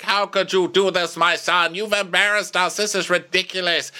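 a lightly played angry father; mock scolding father.

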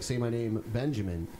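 hushed mock quote. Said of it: "he's like".

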